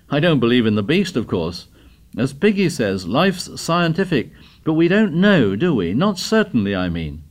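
a hint of an excited schoolboy; eager boy. Boy's speech at assembly.

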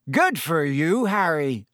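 mild roar of praise. A narrator's reading. Seamus congratulating Harry in the crowd, mildly roaring. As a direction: call it out heartily. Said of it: "roared Seamus Finnegan".

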